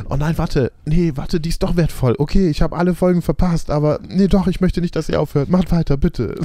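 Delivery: high, loud frantic pleading; panicked fan voice. Retold or imitated.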